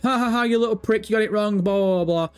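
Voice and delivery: mocking taunt. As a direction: imitate online hecklers gloating. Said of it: "people that will flood Tom Henderson and be like".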